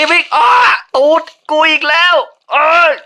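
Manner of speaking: sudden furious yell at the game; real shout. Real, not acted. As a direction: blurt it out at the top of your voice. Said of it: "ต้องขออภัยกับการตะโกนเสียงดัง".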